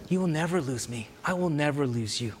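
low, slightly softened reassurance; reassuring. Retold or imitated. Jesus comforting Mary, low and reassuring.

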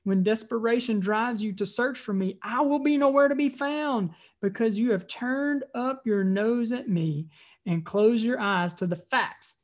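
emphatic, declamatory Bible reading; scripture reading. Acted. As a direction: read it out as Wisdom rebuking the foolish. Reads scripture aloud to congregation.

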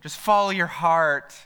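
"Just follow your heart" drawn out slow and sugary; syrupy. Shown as a demonstration. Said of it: "you gotta say it really syrupy when you say it".

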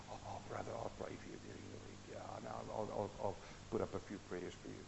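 tossing off a lazy promise to pray; mock pious brush-off. Mocking how churchgoers brush off a struggling brother, offhand and quick.

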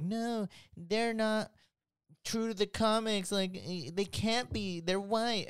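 high, whiny imitation of complainers; mad objectors, mocked. Mimicking people upset about fan casting, mock mad. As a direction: pitch it way up, mock protest. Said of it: "there's people getting mad".

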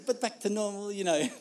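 a hint of a put-on French accent. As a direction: lightly imitate a French neighbour's accent. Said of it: "I know it's getting worse".

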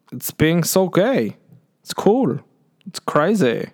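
high, slow, camp gushing. Acted. Camp Bruno voice continues.

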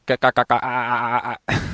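a voice breaking up over Skype, mimicked; mock glitchy audio cut-outs; imitated choppy connection. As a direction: stutter out syllables like a dropping call. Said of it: "like that".

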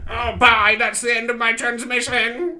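high signing-off ghost voice. Acted.

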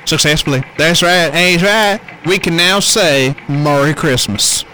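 loud blustering Trump voice; Trump impression.

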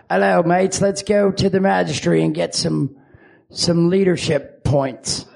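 muddled British-Australian accent; put-on mixed accent, slowing at the end; many different accents. Shown as a demonstration. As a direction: wander between accents, British-ish. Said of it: "many different accents".

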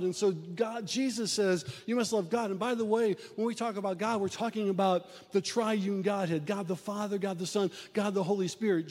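rising sermon cadence; preaching. Acted. Pastor urging the congregation to love God, preaching. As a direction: drive the point home to the pews.

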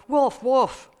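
loud, high shout of alarm; high cry to raise the alarm; crying wolf. A narrator's reading. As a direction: yell the warning out high and loud. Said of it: "she cried".

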